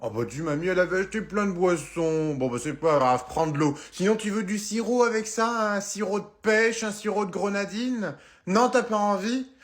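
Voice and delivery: a hint of a doting granny offering drinks; grandma voice.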